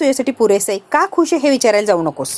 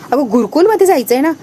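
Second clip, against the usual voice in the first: put-on a touch raised, eager child's call; too loud; 3 semitones higher, 3 dB louder than usual. Ovi reminding her aunt about the gurukul, a little too loudly. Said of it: "एवढ्या मोठ्याने नको बोलू".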